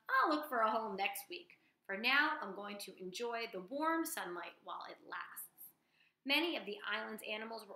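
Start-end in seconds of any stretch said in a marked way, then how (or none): 0.1-5.7 lightly voiced frog. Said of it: "croaked the first frog".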